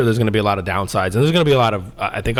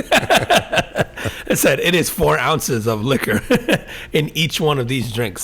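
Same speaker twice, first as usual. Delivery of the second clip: laughing through it; 3 semitones higher, much slower than usual. Real, not acted. Laughs recalling strong drinks.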